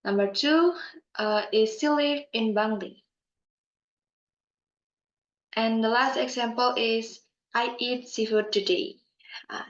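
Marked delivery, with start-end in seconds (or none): 1.8-3.0 statement tune that comes down on "Bangli"; falling intonation. Shown as a demonstration. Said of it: "the tone drop". 7.5-8.9 statement tune, easing down to "today"; falling intonation. Shown as a demonstration. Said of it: "the tone is dropped".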